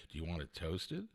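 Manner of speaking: very soft, low, inviting question; sweet server imitation. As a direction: coo the offer quietly, imitating her. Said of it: "even the way she said it".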